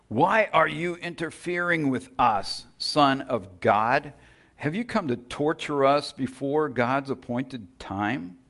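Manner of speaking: high, loud demonic outcry, stretching Son of God slowly; screaming demons. Acted. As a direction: shriek it at him like a cornered demon. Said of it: "They began screaming at him".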